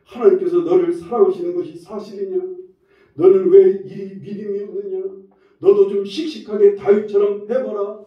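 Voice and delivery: lightly voiced devil taunting the faithful; mocking devil. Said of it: "마구 모욕적인 말을 들려줍니다".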